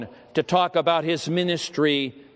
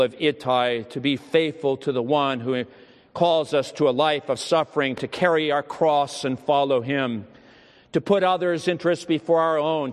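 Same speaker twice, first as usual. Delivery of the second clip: closing prayer. Acted. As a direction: lead the congregation in prayer.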